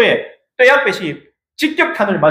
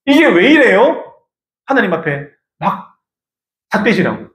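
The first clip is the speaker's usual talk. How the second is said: mock complaint. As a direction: complain to God like a sulking child. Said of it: "뭐지?".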